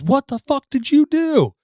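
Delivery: high, loud imitated shout; mock yell. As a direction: belt it out as a shocked friend. Ashley runs down yelling.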